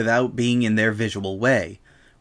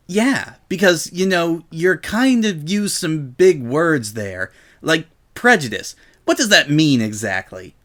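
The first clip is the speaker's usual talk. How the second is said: Rainbow Dash voice; 5 semitones higher than usual. Acted. Rainbow feigning ignorance.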